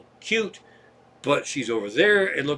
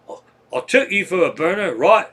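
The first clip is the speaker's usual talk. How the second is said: put-on a stray mismatched accent, not French; hippie's offer in a misplaced accent; wrong accent; 4 semitones higher, 4 dB louder than usual. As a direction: slip into some other accent by mistake. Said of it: "Now, that's the wrong accent".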